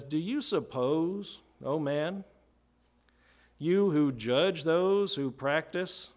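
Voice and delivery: slow, measured sarcastic questioning; drawn-out, mildly sarcastic disbelief; Paul's sarcasm. Acted. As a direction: read it as a pointed rhetorical challenge, rising at the phrase ends. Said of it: "hear Paul's sarcasm here".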